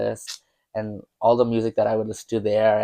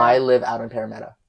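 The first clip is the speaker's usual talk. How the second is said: put-on Australian accent, run-together words; Renee. Imitating the Australian friend, Australian accent. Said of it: "do an Australian accent".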